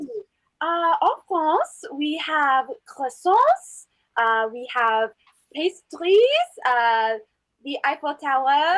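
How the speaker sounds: a hammed-up, slow French accent with stretched vowels; terrible French accent. Playing a French debater to the class, in a bad French accent. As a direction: lean into a bad French accent, drawing out croissants. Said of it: "That's a terrible accent".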